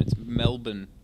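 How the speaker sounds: It's "Melbourne" said MEL-bn, no R, clipped end; Aussie pronunciation. Shown as a demonstration. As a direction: say "Melbourne" as MEL-bun, second syllable swallowed. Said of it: "I'm gonna teach you the correct pronunciation".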